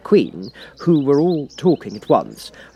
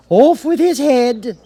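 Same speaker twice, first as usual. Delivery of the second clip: much higher, much louder, slow shrieking command; Queen's order; 13 semitones higher, 9 dB louder, much slower than usual. Acted. The Queen orders the Cat beheaded, furious slow shout.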